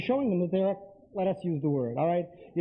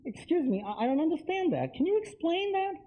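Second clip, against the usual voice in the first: perfectly calm; 8 semitones higher than usual. Shown as a demonstration. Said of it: "You're being perfectly calm".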